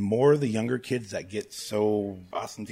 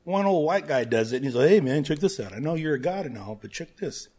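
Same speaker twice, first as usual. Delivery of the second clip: mock cocky; 5 semitones higher, 5 dB louder than usual. Mocking Star-Lord moment.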